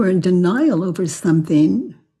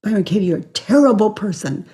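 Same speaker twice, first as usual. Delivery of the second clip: quoted accuser; much faster than usual. Shown as a demonstration. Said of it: "quoted accuser".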